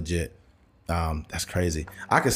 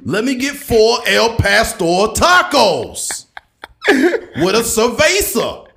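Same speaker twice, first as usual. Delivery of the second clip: high, slow, loud pundit order; Stephen A. Smith ordering; 7 semitones higher, 5 dB louder, slower than usual. Retold or imitated. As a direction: savor the words like a hot take. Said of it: "imagine Stephen A. ordering".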